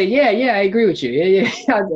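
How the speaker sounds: hammed-up, high-pitched agreeableness; mock eager agreement. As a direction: imitate a people pleaser hurrying to agree. Acts out people-pleasing agreement.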